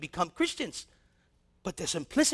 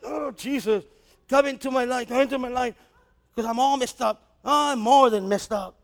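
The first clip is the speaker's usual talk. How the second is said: a hint of a pleading sinner; desperate sinner's prayer; 3 semitones higher than usual. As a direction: cry out to Jesus like a man who's all messed up. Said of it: "Just say this prayer".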